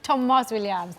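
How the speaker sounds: "Tomas" said Welsh style, TOM-as. Shown as a demonstration. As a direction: open o in "Tomas", flat fall. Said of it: "Phil will tell you how to say it".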